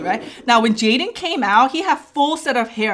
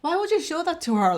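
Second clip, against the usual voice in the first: higher, hushed mock reproach; upset scolding; 5 semitones higher, 7 dB quieter than usual. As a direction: scold the nurse under your breath. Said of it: "gets really upset at the nurse".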